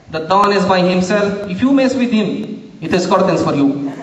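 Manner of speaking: lightly put-on Italian-accented henchman. Sidekick Vito threatening the interviewer, Italian-accented henchman voice. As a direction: deliver a mock mob threat in an Italian accent. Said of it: "he's in his special Italian accent".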